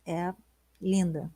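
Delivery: whispered, moved admiration; soft, moved whisper of praise; hushed awe. Real, not acted. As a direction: breathe it out in quiet awe. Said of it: "eu vou chorar".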